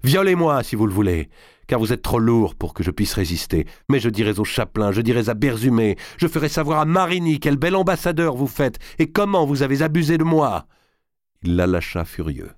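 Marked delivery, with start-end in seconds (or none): 0.0-10.7 high, furious threats building; defiant cry. A narrator's reading. Marguerite threatening to denounce her cousin, crying out defiantly. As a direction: cry it out, climbing higher as the threats mount. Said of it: "cria-t-elle".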